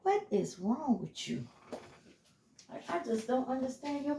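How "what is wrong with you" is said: mock outrage at them; incredulous retort. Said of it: "I'm like".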